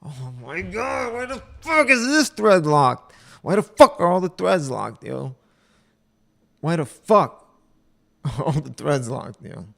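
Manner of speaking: loud, high cry of frustration; exasperated outburst. Real, not acted. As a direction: rail at the screen, punching the swear word. Outburst at finding threads locked.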